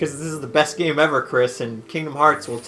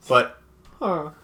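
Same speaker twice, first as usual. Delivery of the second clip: villager noise; 4 semitones lower than usual. Shown as a demonstration. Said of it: "I make that noise".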